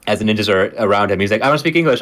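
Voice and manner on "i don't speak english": put-on high, weak stereotypical Asian accent. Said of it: "in a weak, uh, Asian accent".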